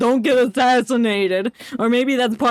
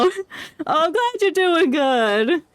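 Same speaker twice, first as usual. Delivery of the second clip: mock crying; 5 semitones higher than usual. Mock pity for doomed character.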